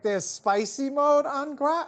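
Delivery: a mildly high, slowed, amazed question; surprised question. Retold or imitated. Wife surprised to hear it.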